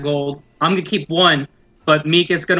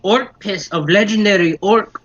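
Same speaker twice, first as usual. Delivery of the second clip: goblin voice; 4 semitones higher, slower than usual. Acted. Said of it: "be like".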